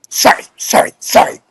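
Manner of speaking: whispered, throwaway sorry; grudging apology. Retold or imitated. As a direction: mumble it like you don't mean it. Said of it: "he goes".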